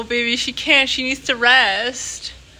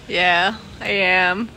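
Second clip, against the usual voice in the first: laughing; 3 semitones lower, slower than usual. Real, not acted. Laughing about cat allergy.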